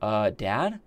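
lightly voiced small child, questioning; six-year-old daughter. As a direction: imitate a kid querying Dad. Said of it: "That's what she says".

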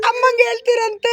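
a touch of tears in the plea; acted tearful plea. Shown as a demonstration. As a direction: demonstrate a mild crying plea. Coach models crying line for actor. (ಸ್ವಲ್ಪ ಅಳುವ ನಟನೆಯ ದನಿ)

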